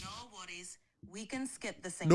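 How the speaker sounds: northern English accent, easy and accommodating. Shown as a demonstration. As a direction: reassure in a Northern England accent. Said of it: "A Northern England accent it is".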